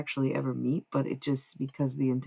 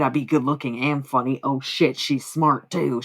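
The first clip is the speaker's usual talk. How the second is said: lightly put-on Southern accent, stretching "smart"; barely Southern mock surprise; weak Southern accent; 6 dB louder than usual. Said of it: "That was, like, a weak-ass Southern accent".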